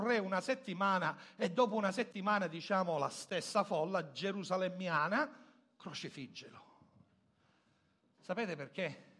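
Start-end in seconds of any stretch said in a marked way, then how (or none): 5.8-6.6 crowd's cry retold softly, low and falling; hushed retold cry. Preacher quotes the Jerusalem crowd turning on Jesus, hushed retold cry. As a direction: drop right down for the mob's shout. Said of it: "Perché gridava".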